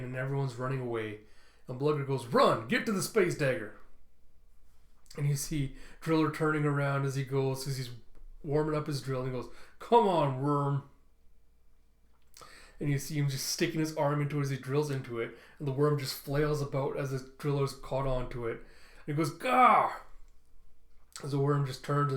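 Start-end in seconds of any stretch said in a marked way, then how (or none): 2.3-3.8 shout. Retold or imitated. Blugger shouting to flee. 9.8-10.8 battle taunt. Retold or imitated. Driller taunting the worm. 19.3-19.9 pained yell. Retold or imitated. Driller tossed aside.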